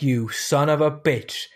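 lightly imitated action hero, slowed down; Arnold Schwarzenegger. Quoting the film's best line, a hint of action-hero voice. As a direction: stretch the curse out slowly. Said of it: "that was, like, my impression of Arnie".

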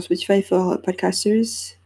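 English accent on the app name. Real, not acted. French podcaster naming an app, slipping into English accent. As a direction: switch into an English accent mid-French sentence. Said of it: "mon accent français et mon accent anglais".

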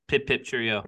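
half-hearted fake British accent; lightly put-on British accent. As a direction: offer a token British accent, badly faked. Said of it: "do a fake British accent".

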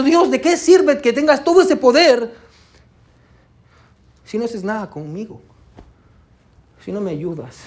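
a lightly voiced reproach that fades to a hush; psalmist's bitter question. Preacher quoting the psalmist to God, a fading mild reproach. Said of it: "El salmista está diciendo".

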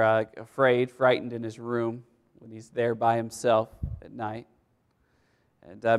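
ordinary talk, nothing marked

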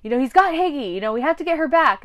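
urgent TC. Retold or imitated. TC urging rescue.

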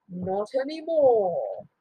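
quiet, slow cold answer; cold reply. Acted. Kronos answering his father, quiet and cold. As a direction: drop it softly, coldly.

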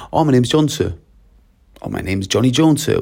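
"Oh, my name's John" lifted high, rising on JOHN before "sir"; polite up-and-down tune. Shown as a demonstration. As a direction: lilt "my name's Johnny Jones" up and down, rising on JONES. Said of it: "the way your voice goes up and down".

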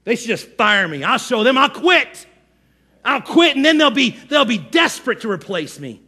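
huffy threat rising in pitch; mock victim. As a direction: play the aggrieved employee storming off. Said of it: "This victim mentality".

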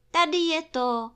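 put-on high, loud excited boy; excited cry. A narrator's reading. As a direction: call it out with excitement. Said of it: "zvolal Krištůfek Robin vzrušeně".

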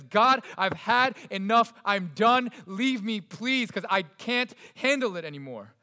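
loud, slow, fed-up plea; fed-up David. Retold or imitated. Preacher voicing David's fed-up cry to God, loud and slow. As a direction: tell God you've had enough. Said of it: "he says".

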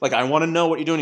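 fast, high and loud pleading; Kramer begging. Retold or imitated. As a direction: rush it out like frantic Kramer. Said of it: "he's channeling Kramer".

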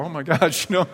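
lightly voiced startled kids; kids' voices. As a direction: rattle it off like an alarmed child. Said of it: "the kids are going".

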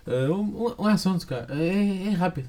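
put-on Brazilian Portuguese accent. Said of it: "sotaque brasileiro com voz de português".

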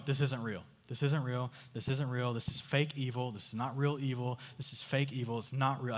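to himself in the maze, a quiet calming mantra; muttered mantra. Retold or imitated. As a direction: repeat it quietly to calm yourself. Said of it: "I just go, repeat this phrase ... in my head".

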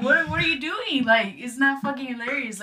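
high-pitched, incredulous objection; indignant, as if calling out someone laughing at you; retold indignant protest. Scolds the laughing student in retelling.

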